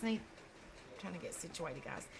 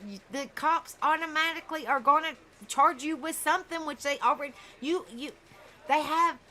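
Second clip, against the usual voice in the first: heated scolding; 3 semitones higher than usual. Real, not acted. Scolding the fled parents.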